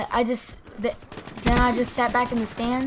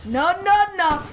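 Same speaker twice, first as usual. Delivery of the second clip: retold panicky protest; panicked yelling; 3 semitones higher, 3 dB louder, slower than usual. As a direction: refuse it in a half-laughing panic. Panics about swat being called.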